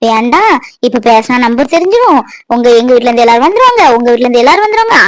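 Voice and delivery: fast, low mocking imitation of husband; mocking his words. Wife mocks husband's old excuses, fast low sneer. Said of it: "பேசுனீங்க".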